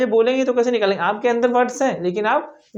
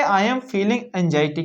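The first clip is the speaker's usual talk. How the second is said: slow model sentence; 2 semitones lower, much slower than usual. Shown as a demonstration. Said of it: "तो क्या बोलेंगे?".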